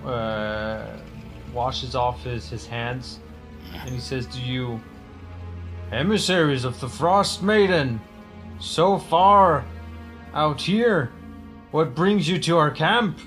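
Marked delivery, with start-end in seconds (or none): 5.9-13.2 tribesman voice. Acted.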